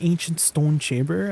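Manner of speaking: hint of a Canadian accent on "stone"; accidental Canadian accent. Real, not acted. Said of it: "I don't know why I said stone like that".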